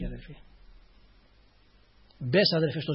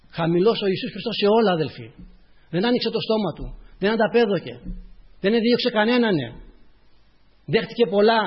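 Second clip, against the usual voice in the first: raised, emphatic sermon voice; impassioned preaching; 6 semitones higher, 6 dB louder than usual. Real, not acted. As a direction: preach it out with rising fervour.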